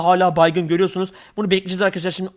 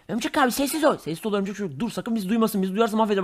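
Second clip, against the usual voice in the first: dropped to a hush; hiding partners hushing each other; 8 dB quieter than usual. Acted. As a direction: keep it down so the alien won't hear. Hiding from the alien.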